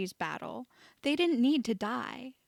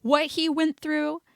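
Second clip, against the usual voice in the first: higher, louder, raw with anger; furious defence of his friend; 6 semitones higher, 5 dB louder than usual. A narrator's reading. Ron raging at Malfoy for Harry, high and raw. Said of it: "Ron's voice had gone high and raw".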